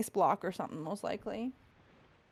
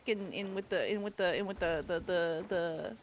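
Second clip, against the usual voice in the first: put-on Canadian accent; 3 semitones lower than usual. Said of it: "while you do the Canadian shtick".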